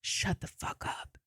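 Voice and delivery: slow, breathless whisper of disbelief; stunned whisper. Retold or imitated. Troy Baker seeing the Borderlands hat, stunned whisper. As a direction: say it under your breath, floored. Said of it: "and he goes".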